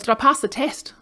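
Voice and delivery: high-pitched, earnest query; imitating confused dad. Medicated dad presses daughter about the test, puzzled. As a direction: play a puzzled dad pressing his question.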